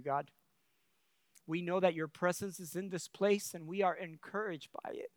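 earnest praying voice; prayer. Acted. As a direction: pray it over the congregation. Leads closing prayer.

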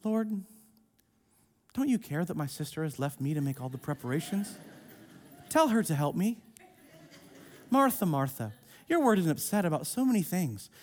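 quick, offhand run-through, a touch of mockery; hurried devotional read. Shown as a demonstration. Mocking how people skim the passage in devotions. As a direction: rattle it off like checking a box. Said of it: "you read it in your devotional, you check it off".

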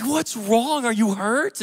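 acted parental worry; worried parent. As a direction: retell an anxious check on a hurt child. Retold parent asking crying child.

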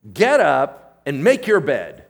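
loud, slow, punched order; commanding. Retold or imitated. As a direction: belt out each word of the command slowly. Quotes Peter's command to the man.

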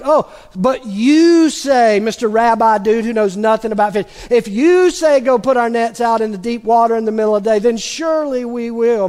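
sarcastic. Retold or imitated. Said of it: "maybe he made it sarcastically".

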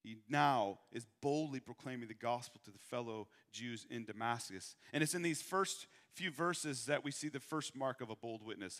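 usual speaking voice

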